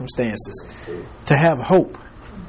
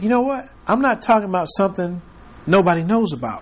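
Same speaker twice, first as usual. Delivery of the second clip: higher, quicker insistent paraphrase; eager Paul; 4 semitones higher than usual. Retold or imitated. Paul insisting to Agrippa, eager and quick. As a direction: press the point like you're bursting to tell. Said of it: "He says".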